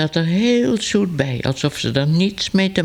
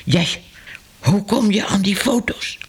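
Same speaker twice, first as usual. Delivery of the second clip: furious; 5 semitones higher than usual. A narrator's reading. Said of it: "zei Ellemeet, woedend".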